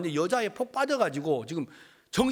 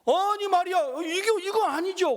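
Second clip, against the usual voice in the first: much higher, louder cry of objection; shocked protest; 14 semitones higher, 4 dB louder than usual. Retold or imitated. Parents protesting in shock at the pastor's advice. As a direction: object in disbelief.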